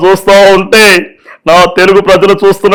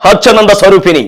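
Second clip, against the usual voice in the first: menacing villain dialogue. Acted. Villain taunts his enemy with a mock chant. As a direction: declaim the villain's boast.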